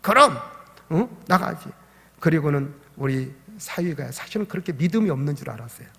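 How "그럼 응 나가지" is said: a hint of a little girl answering; lightly voiced child, cheerful; childlike answer. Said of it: "그러는 거예요". (손녀가 할아버지께 답하듯 살짝 아이 목소리로)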